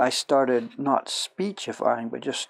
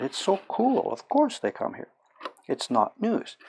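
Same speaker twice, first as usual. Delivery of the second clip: mock Italian pride; 7 semitones higher than usual. Voicing the proud Italians.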